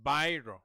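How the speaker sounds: "Biro" said as "bye-ro"; English-style biro. Shown as a demonstration. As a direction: rhyme the start of "Biro" with "buy". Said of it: "this is buy".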